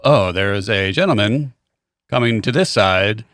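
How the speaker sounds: slow, droning mock announcer; slow deadpan mock announcer call; monotone announcer. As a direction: drag it out like a bored announcer. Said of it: "He was very monotone and ridiculous".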